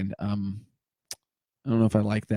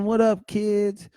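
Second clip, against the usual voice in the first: hyped greeting; 9 semitones higher, much slower than usual. Pretend.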